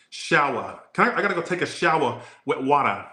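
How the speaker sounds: playful mock Boston, R's dropped; Boston accent. Mimicking Boston talk to viewers, Boston accent. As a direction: do an exaggerated Boston local. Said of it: "Oh, I love that accent".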